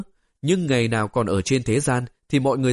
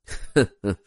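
smug chuckle; 4 semitones lower than usual. Acted. Character chuckles before boastful reveal.

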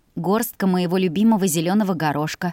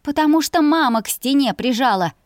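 higher and louder angry outburst; angrily blurted; 6 semitones higher, 3 dB louder than usual. A narrator's reading. Sister blurting angrily at her brother, heated. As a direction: snap it out in anger. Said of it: "гневно выдала я".

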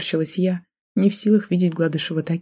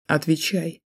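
threatening hiss; slower than usual. A narrator's reading. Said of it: "Олег угрожающе процедил".

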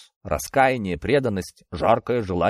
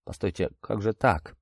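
dry-mouthed struggle; 3 semitones lower, 6 dB quieter than usual. A narrator's reading. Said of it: "с трудом проговорил он пересохшим ртом".

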